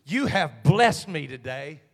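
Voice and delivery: slow, awed, rising to loud thanks; lightly voiced grateful worshipper; grateful praise. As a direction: kneel and bless the preacher. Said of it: "get down on one knee and say".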